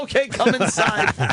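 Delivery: high, slow put-on maid voice; maid's voice.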